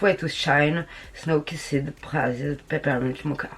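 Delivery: slow English product name in a French accent. Real, not acted. Vlogger reads the palette's name to viewers, French-accented English. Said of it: "mon accent anglais est formidable".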